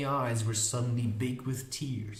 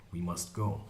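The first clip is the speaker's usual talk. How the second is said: lower, softer, cool statement; cold; 6 semitones lower, 5 dB quieter than usual. A narrator's reading. Magician addressing the unicorn, coldly. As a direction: say it coolly and low. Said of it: "Schmendrick said coldly".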